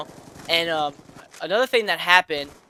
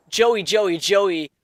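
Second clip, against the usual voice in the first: a hint of a scolding grandma, a bit louder; lightly mock her nagging over and over; mildly imitated fussing grandma; 3 semitones higher, 3 dB louder than usual. Grandma nagging in retold story.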